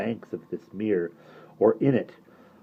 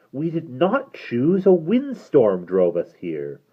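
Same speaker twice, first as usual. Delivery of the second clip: put-on girl pleading; 2 semitones higher, 3 dB louder, slower than usual. Derna protests.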